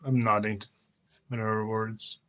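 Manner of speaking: ordinary delivery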